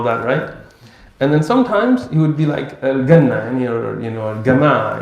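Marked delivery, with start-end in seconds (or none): 2.8-3.5 "Al-Ganna" with a hard g for j; Egyptian jim. Retold or imitated. Imitating a sheikh from Egypt, hard g for jim. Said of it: "have been to Egypt". 4.3-5.0 "Al-Gama" with a hard g for j; Egyptian jim. Retold or imitated. Imitating a sheikh from Egypt, hard g for jim. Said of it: "have been to Egypt".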